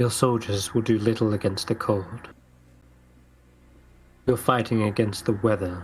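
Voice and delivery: level, flat, expressionless monotone. A woman in the story answers the call for soldiers, in a monotone voice. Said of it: "respond in a monotone-like voice".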